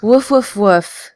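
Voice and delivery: high playful woofs; dog barking. Acted. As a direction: bark like a dog. Dog barking to reach Thorn.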